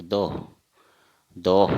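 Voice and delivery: दो as "doh", with a puff of h; Assamese pronunciation. Shown as a demonstration. Teacher repeating Assamese ten, doh with final h. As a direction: end दो on a strong breath. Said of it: "असमिया में हम दस को".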